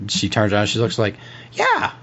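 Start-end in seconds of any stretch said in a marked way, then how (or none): 1.5-1.9 very high falsetto character voice; squeaky, hesitant recollection; Clarice, hesitant. Acted. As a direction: answer uncertainly in falsetto. Game master plays Clarice answering.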